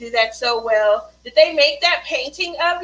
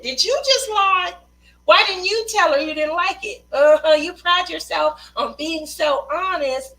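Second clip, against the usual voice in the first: put-on higher and louder, a kid catching a parent lying; accusing kid; 4 semitones higher, 4 dB louder than usual. Kids catching a parent's lie, accusing and louder. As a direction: call it out like a nosy kid.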